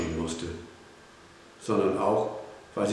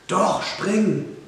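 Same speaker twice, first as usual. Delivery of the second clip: high, urgent cry; raised, emphatic command; insistent shout; 9 semitones higher, 4 dB louder than usual. A narrator's reading. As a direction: insist on the jump, calling out. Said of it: "rief Tom noch einmal".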